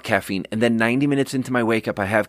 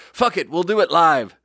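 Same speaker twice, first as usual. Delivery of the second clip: raised, punchy quote of the clip; quoting chef; 6 semitones higher than usual. Retold or imitated. Chef in the kitchen quoting the clip, punchy. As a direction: fire it off like a cocky cook. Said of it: "Chef is like".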